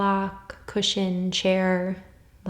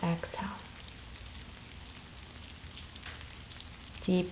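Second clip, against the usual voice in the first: calm, unhurried meditation voice with long pauses; guided meditation; 6 dB quieter than usual. Real, not acted. Yoga teacher guiding listeners through soul questions, calm meditation voice. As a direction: gently guide them inward, leaving space after each phrase.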